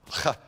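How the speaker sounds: H as a throaty scrape; guttural. Shown as a demonstration. Telling students to save that for the cough, guttural H. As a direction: rasp the H from the back of the throat. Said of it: "it's more guttural".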